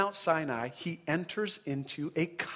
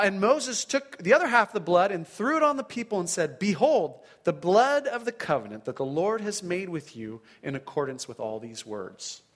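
raised, vivid Bible reading; scripture reading. Acted. Preacher reading the covenant ceremony, raised and vivid. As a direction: read the blood ceremony with rising intensity. Reads Exodus twenty-four aloud.

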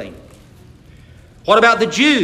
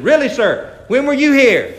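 higher, louder astonished guide; surprised question; 4 semitones higher, 5 dB louder than usual. Acted. Guide questions the preacher's claim, surprised. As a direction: question him in raised disbelief.

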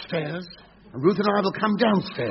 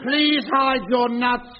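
through a megaphone; 5 semitones higher than usual. Acted. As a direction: call it out over a loudhailer. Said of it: "picked up a megaphone".

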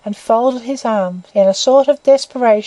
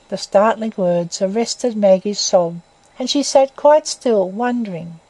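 usual speaking voice

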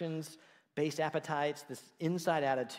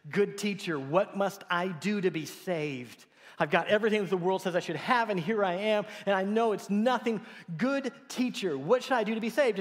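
desperate pleading ruler; 6 semitones higher, 6 dB louder than usual. Acted. Rich ruler begs Jesus.

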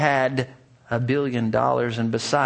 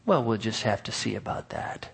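kind smiling voice; 3 semitones lower, 6 dB quieter than usual. A narrator's reading. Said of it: "had a very kind smile in his face".

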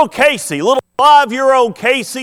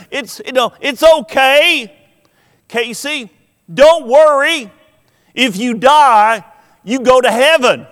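lightly voiced three-year-old, higher and brighter; little sister comforting; 5 semitones higher than usual. Preacher voicing a toddler comforting her sister. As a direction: comfort your big sister like a small child. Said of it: "She says".

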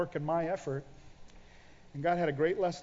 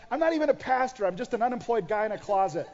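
frustrated self-pity; 4 semitones higher, 3 dB louder than usual. Retold or imitated. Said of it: "I was frustrated".

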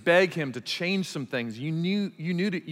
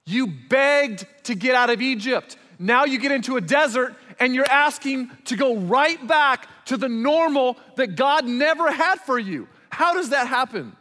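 high, loud, impassioned preaching; full-force preaching; 7 semitones higher, 5 dB louder than usual. Acted. Pastor rebuking the congregation with loud, fired-up preaching. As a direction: drive the point home to the congregation.

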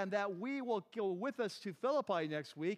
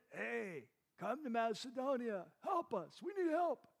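mock plea from a man in a vision; pleading Macedonian man; 3 semitones higher than usual. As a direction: beg for help, building to a higher cry.

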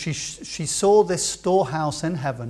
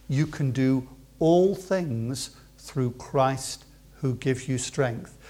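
very slow and softer, stretching "all"; quiet encouragement; 4 semitones lower, 5 dB quieter, slower than usual. Shown as a demonstration. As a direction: gently reassure every age group. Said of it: "repeated verse, quiet encouragement".

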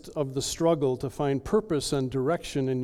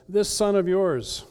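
higher, louder, slow scorn; scornful older brother; 7 semitones higher, 8 dB louder than usual. Acted. Older brother disowning his brother to the father, scornful. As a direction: spit out yours with contempt. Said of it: "Notice he says".

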